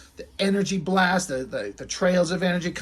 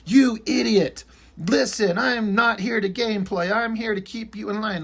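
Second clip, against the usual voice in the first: higher-pitched cartoonish telling-off; mock scolding; 4 semitones higher than usual. Reviewer acting out a comic villain's yapping, mock scolding. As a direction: act out a bossy comic-book put-down.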